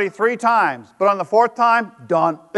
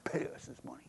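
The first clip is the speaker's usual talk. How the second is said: stern banker; 4 semitones lower, 9 dB quieter, faster than usual. Retold or imitated. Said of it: "The bank says".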